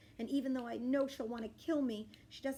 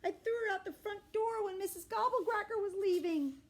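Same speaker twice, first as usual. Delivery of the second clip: loud inner thought; 12 semitones higher, 5 dB louder than usual. A narrator's reading. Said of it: "inside my thoughts are loud".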